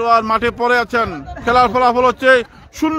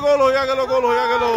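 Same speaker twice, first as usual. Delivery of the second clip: goal celebration shout; 4 semitones higher than usual. Real, not acted. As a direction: stretch out the goal call.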